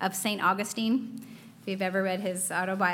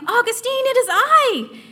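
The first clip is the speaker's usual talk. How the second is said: high, louder call across the distance; calling after him; 14 semitones higher, 9 dB louder than usual. Retold or imitated. Woman calling after the fleeing Augustine, high and loud. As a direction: shout after a man who is running away. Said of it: "She called after him".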